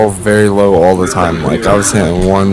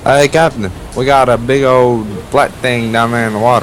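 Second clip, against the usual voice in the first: lightly put-on Ilsdani accent; 3 semitones higher than usual. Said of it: "Why do you sound like you're from Ilsdani?".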